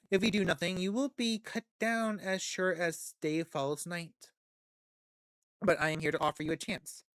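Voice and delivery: ordinary delivery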